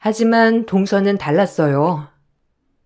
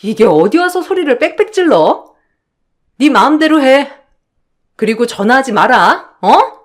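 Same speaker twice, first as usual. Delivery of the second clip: husband barking orders over the phone; angry shouting on the phone; 2 semitones higher than usual. Acted. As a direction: yell down the line at her. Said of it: "전화로 그렇게 소리치던".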